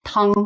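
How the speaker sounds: TANG high and level; first tone. Shown as a demonstration. Teacher demonstrating the word for soup, TANG in high level first tone. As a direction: hold TANG on one high, flat note. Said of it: "first tone".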